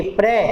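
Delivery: प्रे cut off alone as the first syllable of प्रेशियस; syllable sounded out. Shown as a demonstration. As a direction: say just प्रे, apart from the rest. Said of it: "इसका correct pronunciation क्या होता है".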